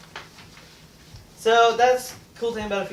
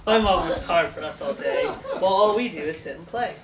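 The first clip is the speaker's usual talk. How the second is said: poem reading. Acted. Finishing the villanelle.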